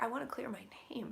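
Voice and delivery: hushed, breathy whisper; imitating a whispered plea; whispered confession. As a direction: whisper it like a secret. Quoting spirit confessing privately.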